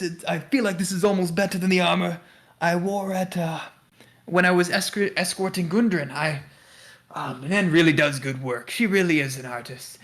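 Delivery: lightly voiced courteous adventurer; Sildar, pleased. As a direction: lightly play an appreciative ally admiring new armor. Game master plays Sildar.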